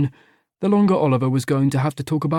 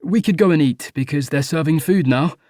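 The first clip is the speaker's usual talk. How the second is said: quick eager interruption; 5 semitones higher, 3 dB louder than usual. Acted. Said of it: "I said quickly".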